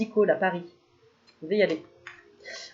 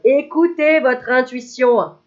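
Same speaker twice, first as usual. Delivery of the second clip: solemn advice; 3 semitones higher, 6 dB louder, much slower than usual. Acted. Delivering the card's message.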